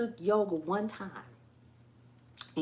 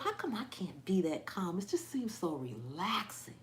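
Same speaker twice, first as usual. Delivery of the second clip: whispering; 6 dB quieter than usual. Retold or imitated. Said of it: "And I be thinking to myself".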